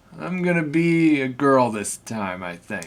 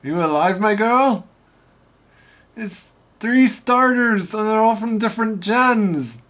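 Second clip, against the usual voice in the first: fussy gentleman voice; 6 semitones higher than usual. Acted. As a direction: wake someone up, politely fussy. Character voice, excited.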